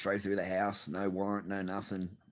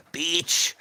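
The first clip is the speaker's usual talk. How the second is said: mock squeal; 9 semitones higher, 8 dB louder than usual. Mock insult to absent wife.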